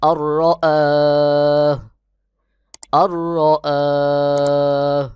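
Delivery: "আহ" drawn long, closing on a silent-vowel h; correct stopped ending. Shown as a demonstration. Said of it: "সহি উচ্চারণ হবে". ("আহ" টেনে হা সাকিন করে থামা)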